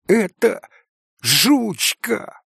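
a boy's joyful outburst, mildly voiced; cracked joyful cry. A narrator's reading. Sick boy recognises his lost dog, crying out with joy. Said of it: "прокричал он вдруг надтреснутым от ... и счастья голоском".

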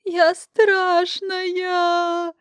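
slow high crying wail; long sobbing wail; plaintive wail. Acted. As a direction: wail it out in tears. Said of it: "жалобно завыла".

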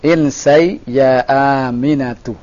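"Insai ya Aminatu" slow, falling at the end; command intonation. Shown as a demonstration. Teacher modelling the correction for a student, command intonation. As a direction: draw it out and drop "Aminatu". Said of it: "antum kembali ke intonasi pertanyaan".

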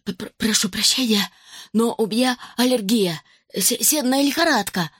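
stammering sniffly whimper. Acted. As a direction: whine an apology, stuttering. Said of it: "захныкал Зак".

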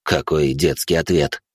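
a hint of an old man scoffing. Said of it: "хмыкнул он".

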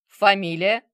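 loud, curt demand. Acted. Bazarov grilling the manager, loud demand. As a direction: snap the question. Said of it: "потребовал Базаров".

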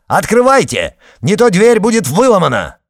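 Arkady barking over his sister. A narrator's reading. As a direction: bark it out in fury. Arkady threatening to break door.

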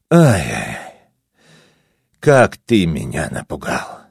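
tired, appeased. Acted. Vaso, calmed, gently chides the narrator. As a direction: sigh it out, all anger spent. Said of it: "усталым и умиротворённым голосом".

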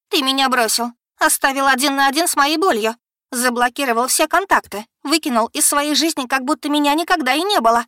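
high, loud, shaking outcry; проорала; shouting. Acted. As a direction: yell out all her pain. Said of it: "проорала Бекки, трясясь всем телом".

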